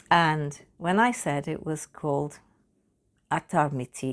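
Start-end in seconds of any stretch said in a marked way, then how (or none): 3.3-4.1 lightly attempted Hindi accent; a hint of a Hindi accent. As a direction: try a careful Hindi pronunciation of the name. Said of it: "attempted best Hindi accent".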